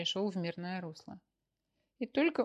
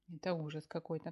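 sobbing; 2 semitones lower, 3 dB quieter than usual. Acted. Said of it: "всхлипнула Маша".

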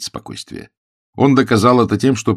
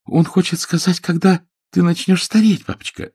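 put-on lightly raised girl's voice, sweet to her father; a daughter coaxing her papa, pitched up; young daughter voice; 11 semitones higher than usual.

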